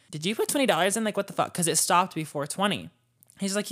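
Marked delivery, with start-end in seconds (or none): 0.1-1.5 accusing tone. Shown as a demonstration. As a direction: make the question sound like an accusation. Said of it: "that sounded like I was like".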